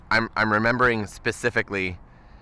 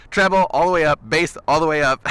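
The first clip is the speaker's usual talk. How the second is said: laughing emphasis; 6 semitones higher, 5 dB louder than usual. Retold or imitated. Retelling friend cranking knobs.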